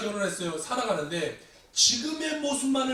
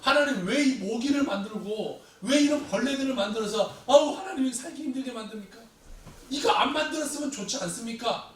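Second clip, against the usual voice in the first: complaining to God; 4 semitones higher than usual. Acted. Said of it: "우리도 살면서 그런 질문하지 않아요?".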